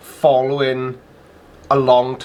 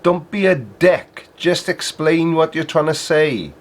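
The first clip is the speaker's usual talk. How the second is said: irritated, raised voice; exasperated; 5 semitones higher than usual. Real, not acted. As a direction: snap at him in frustration. Scolding the video.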